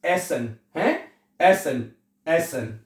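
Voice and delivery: एसन said "ESS-ən", open e first; correct German E. Shown as a demonstration. Teacher drills the word for students, "ESS-ən". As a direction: say एसन with e, not "ee". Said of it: "तो क्या बनेगा?".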